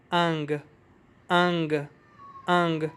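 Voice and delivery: short vowel in انگ, then ng with a faint g; alif-noon-gaf sound. Shown as a demonstration. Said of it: "الف، نون، گاف". (انگ، چھوٹے الف اور ہلکے گاف کے ساتھ)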